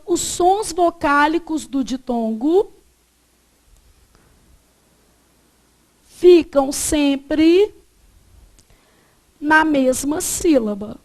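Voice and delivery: slow phrases with long pauses; slow dictation. Shown as a demonstration. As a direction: dictate piece by piece for note-taking. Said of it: "eu vou falar assim".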